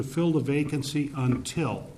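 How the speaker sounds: "until" pressed and held; emphasize "until" for the committee; stress on until. Shown as a demonstration. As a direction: lean on "until". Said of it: "and I emphasize the word until".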